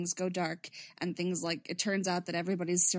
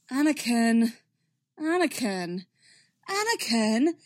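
repeated name in imitation, pitched up on the last; imitated Obi-Wan voice; 6 dB louder than usual. Podficcer finding a lost character voice, imitated Obi-Wan. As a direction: say the name over and over as a voice warm-up. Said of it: "this whole bit of, like, twenty seconds of just".

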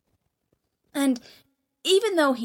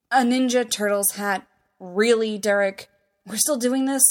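exasperated; 2 semitones higher, 6 dB louder than usual. Acted. Stiles exasperated at the gift.

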